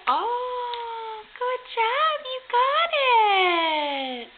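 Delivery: delighted slow praise for the little one; excited praise. Real, not acted. Praising baby's climb.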